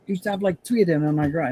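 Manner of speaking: hammed-up New York mobster voice; New York mobster accent. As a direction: play it like a movie mobster from Queens. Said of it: "that's what it sounds like".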